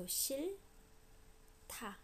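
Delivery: 싫다 said slowly and breathily, 다 aspirated like 타. Shown as a demonstration. Teacher slowly demonstrating aspiration in 싫다 for students. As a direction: stretch 싫다 out, letting the aspiration hiss through. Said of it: "aspiration happens".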